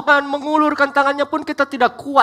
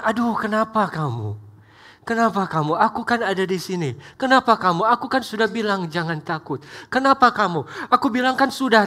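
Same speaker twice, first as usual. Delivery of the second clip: gentle, not angry. Acted. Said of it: "Dia tidak marah".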